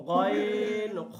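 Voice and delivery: slow, drawn-out Arabic letters ghayn and kha; demo letter sounds. Shown as a demonstration. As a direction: stretch out গইন খ slowly from the back of the throat. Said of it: "হলকের শেষ ভাগ হইতে".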